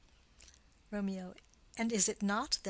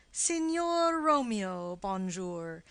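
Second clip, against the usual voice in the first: mock French greeting; slower than usual. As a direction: slowly greet Romeo with mocking grandeur. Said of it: "There's a French salutation".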